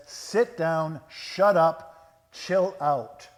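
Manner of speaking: loud, punchy commands with pauses; scolding. Acted. Jesus rebuking the storm, scolding. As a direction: scold it like an unruly child. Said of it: "He scolds the storm".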